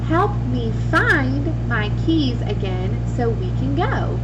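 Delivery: slow example with find; slow model sentence. Shown as a demonstration. Teacher reading a slow example sentence with find. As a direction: say it slowly so they catch find. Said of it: "Did you hear the word find in my sentence".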